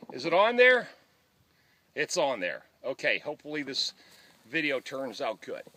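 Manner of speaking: farther from the mic, phone on a stick; recorded from arm's length; on a selfie stick. Real, not acted. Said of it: "I'm gonna put this on my selfie stick".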